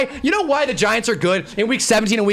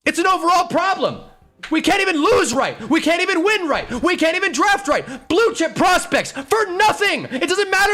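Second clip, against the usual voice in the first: raised, heated fan rant; angry rant; 5 semitones higher than usual. Real, not acted. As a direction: let the frustration boil over.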